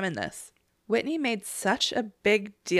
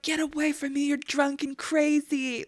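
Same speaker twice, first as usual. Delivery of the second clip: higher voice, slowing at the end; imitating a fed-up friend; 7 semitones higher than usual. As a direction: mimic someone shooing a drunk away. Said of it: "And Heather's like".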